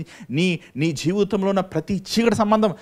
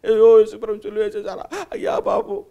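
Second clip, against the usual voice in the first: hammed-up wail, pitch leaping high at అయ్యా బాబు; mock wailing; 7 semitones higher, 7 dB louder than usual. Preacher mimics believers wailing over the cross, mock lament. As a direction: mimic a mourner's cry, mockingly. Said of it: "అని ఎందుకు ఏడుస్తావు?".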